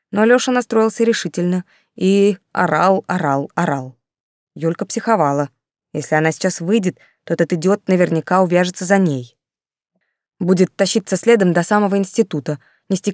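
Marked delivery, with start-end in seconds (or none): none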